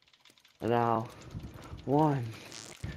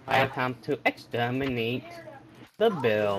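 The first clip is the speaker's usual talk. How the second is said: stiff robotic Dalek voice. Pretend. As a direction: speak like a menacing robot. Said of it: "the second you started talking like that".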